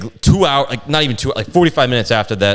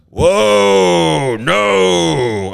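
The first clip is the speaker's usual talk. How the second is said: 1 mock heckler; 8 semitones higher, 3 dB louder than usual. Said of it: "the same guy goes".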